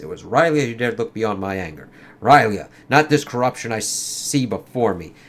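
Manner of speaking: lightly acted comic dialogue, in character; comic characters voiced. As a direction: read it like a dramatic comic scene. Reads Angela's speech.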